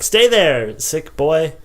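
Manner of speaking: lightly voiced commanding father; mock stern dad. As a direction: raise it a little like a dad giving orders. Dad orders sick child to stay.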